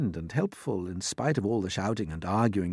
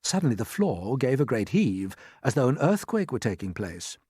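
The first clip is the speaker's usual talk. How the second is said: ordinary delivery, nothing marked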